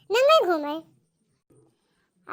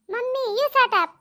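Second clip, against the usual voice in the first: slow, louder, higher shut up; shouting back; 5 semitones higher, 5 dB louder, slower than usual. Acted. Bride yells at mother-in-law, slow and loud.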